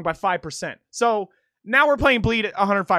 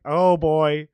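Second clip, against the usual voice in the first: loud, stretched-out mock dread; imitated dread; 5 dB louder, much slower than usual. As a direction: re-enact your own nerves with long, held vowels. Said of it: "I straight up was just like".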